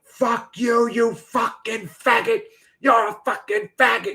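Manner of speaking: retelling his meltdown on stream, mock high yell. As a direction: imitate him snapping, high pitched. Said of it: "He's like".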